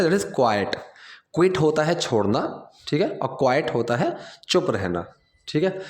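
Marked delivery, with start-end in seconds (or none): 0.4-0.8 quiet said as "KWY-ut"; carefully pronounced quiet, "kwai-ut"; pronunciation of quiet. Shown as a demonstration. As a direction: say quiet with two syllables, kwai-et. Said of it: "इसकी जो pronunciation है".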